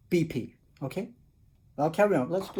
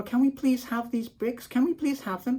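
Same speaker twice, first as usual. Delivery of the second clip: begging wolves; 7 semitones higher, 3 dB quieter than usual. Retold or imitated.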